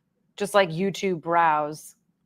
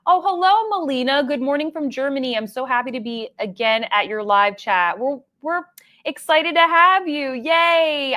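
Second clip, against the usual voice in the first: greeting a viewer from Germany in the chat, excitedly high; 5 semitones higher than usual. Real, not acted. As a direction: gush a warm welcome to a viewer.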